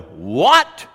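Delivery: incredulous what, pitch swooping up loudly. Shown as a demonstration. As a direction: blurt it out in disbelief. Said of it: "you're just incredulous, you're going".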